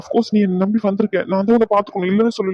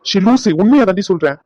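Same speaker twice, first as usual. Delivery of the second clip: insistent protest; 5 dB louder than usual. Acted. Husband insists he is truthful.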